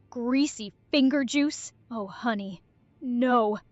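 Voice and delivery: hillbilly voice, grossed out and gagging; southern hillbilly accent. Acted. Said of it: "describe the fingers in your southern, uh, hillbilly accent".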